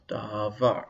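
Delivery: "davar" with the stress on VAR; stress on last syllable. Shown as a demonstration. Teacher shows the word with no accent mark, stress on last syllable. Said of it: "the stress is on the last syllable".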